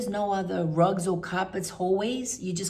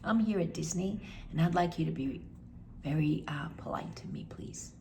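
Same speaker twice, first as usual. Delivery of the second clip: polite firm reply; 7 dB quieter than usual. Retold or imitated. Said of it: "I said to her".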